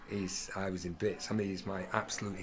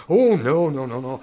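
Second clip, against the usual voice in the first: flustered backing down; 3 semitones higher, 11 dB louder than usual. Acted. British diner to waiter, hastily apologetic. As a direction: hurriedly wave the complaint off.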